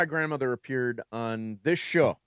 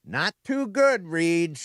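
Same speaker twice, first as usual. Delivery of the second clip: Rose; much slower than usual. Retold or imitated. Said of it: "And she says".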